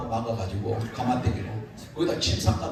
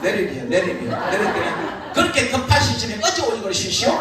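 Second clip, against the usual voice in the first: Chungcheong farmer; 5 semitones higher, 6 dB louder than usual. Retold or imitated. Farmer scolds the driver.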